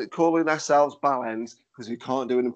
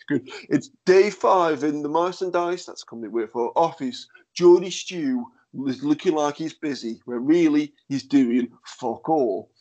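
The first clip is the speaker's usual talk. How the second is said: Big Brother narration. Retold or imitated. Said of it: "There's that Big Brother narration".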